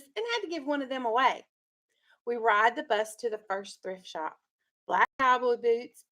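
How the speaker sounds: steady read-aloud storytelling voice; story narration. A narrator's reading. Teacher reading a picture book to her class, storytelling voice.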